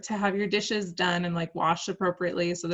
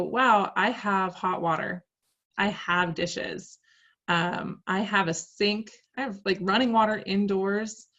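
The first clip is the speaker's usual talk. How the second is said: grateful. Retold or imitated. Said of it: "Or we could go".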